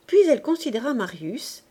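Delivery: plain reading voice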